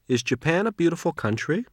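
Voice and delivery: yes-no question rising at the end; rising question tune. Shown as a demonstration. Teacher models a yes-no question. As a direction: lift the pitch toward country.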